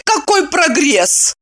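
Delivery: slow, ironic wonder; mock amazement. Eva mocking Maya's progress, slow ironic amazement. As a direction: marvel sarcastically, slowly. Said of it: "поразилась Ева".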